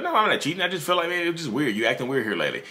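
high, puzzled innocent denial; innocent partner. Retold or imitated. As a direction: sound honestly confused. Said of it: "typically they're like".

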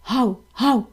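a dog's woof, barked in a changed voice. Acted. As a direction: bark like a dog. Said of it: "відповів собака".

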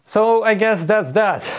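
high, slow playful sign-off; high drawn-out sign-off. Pretend. Wrap-up line, drawn out.

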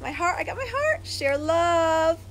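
tearful farewell; holding back tears. Real, not acted. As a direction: choke up but push through the words. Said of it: "I don't wanna cry".

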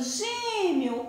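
"gêmeo" said slowly with the ending as -miu; final U sound. Shown as a demonstration. Teacher repeats the spoken form for pupils, "gêmeo" ending in U. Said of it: "Eu digo gêmeo".

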